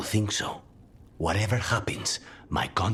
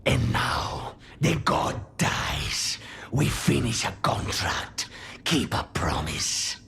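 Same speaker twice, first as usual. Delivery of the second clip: higher-pitched, weighty declaration; pitched up, deliberate and resolute; dramatic vow; 5 semitones higher, slower than usual. Acted. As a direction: declare the vow with mounting intensity. Vowing to kill a god.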